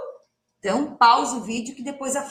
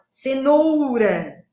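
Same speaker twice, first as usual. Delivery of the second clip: cenoura stretched slowly, syllables held; drawn-out cenoura; much slower than usual. Shown as a demonstration. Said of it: "Pensando na sílaba final".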